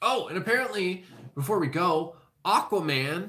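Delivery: voice cracking and breaking on the word. Speaker adding one last bit of movie news before signing off, voice cracking. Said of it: "My voice cracked there".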